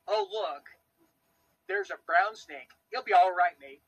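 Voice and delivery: casual, badly done Australian accent; attempted Australian accent. American joking about unbothered locals spotting a snake, attempted Australian accent. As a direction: put on a loose, amateur Australian accent. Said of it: "I can't do an Australian accent".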